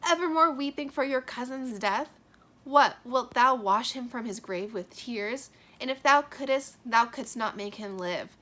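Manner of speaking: lightly voiced stern mother; scolding mother. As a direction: chide the weeping daughter. Reading Lady Capulet's rebuke.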